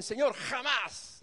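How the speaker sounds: slow, firm and final; Peter's stubborn never to his Lord. Retold or imitated. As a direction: plant your feet on every syllable. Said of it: "ese tono de, de firmeza".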